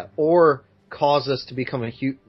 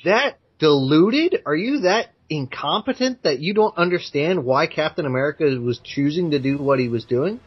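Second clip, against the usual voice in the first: incredulous retort. Acted. Commenter to online gripers about Captain America, incredulous. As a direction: throw it at them in disbelief.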